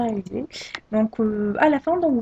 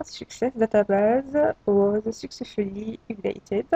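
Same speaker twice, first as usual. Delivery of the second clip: English with a heavy French accent; real French-accented English, words drawn out. Real, not acted. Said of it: "désolé pour mon accent".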